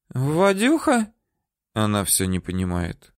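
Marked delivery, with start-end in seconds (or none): 0.1-1.1 high, feigned puzzled woman's voice; woman stalling her interrogator; playing dumb. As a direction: ask high, pretending not to know.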